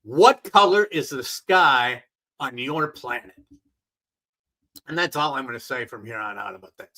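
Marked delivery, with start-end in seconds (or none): 0.0-3.4 sarcastic jab. Acted. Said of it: "all I can say is to Don Lemon".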